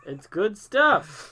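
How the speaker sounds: drawn out. Real, not acted. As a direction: savour every word, slowly.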